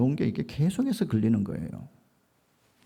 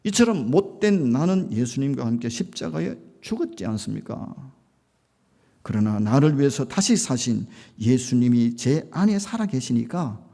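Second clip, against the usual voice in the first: earnest prayer; 4 dB louder than usual. Retold or imitated. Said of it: "짧지만은 간절하게 기도하고".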